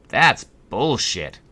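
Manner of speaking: indignant customer growling at the board; scowling man. A narrator's reading. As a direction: spit it out slowly, disgusted. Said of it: "scowled a man".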